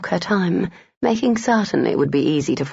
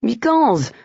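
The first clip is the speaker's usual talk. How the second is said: easy; 7 semitones higher than usual. Acted. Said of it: "Jacques said easily".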